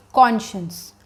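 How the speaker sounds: "conscience" said slowly as KON-shuns; correct pronunciation. Shown as a demonstration. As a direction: model "conscience" as KON-shuns, falling at the end. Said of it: "we pronounce this word as". ("conscience" का सही उच्चारण, कॉन-शंस)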